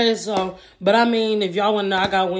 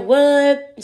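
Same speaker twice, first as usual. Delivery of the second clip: surprised; 5 semitones higher, 6 dB louder than usual. Retold or imitated. Friend reacts to hearing the name.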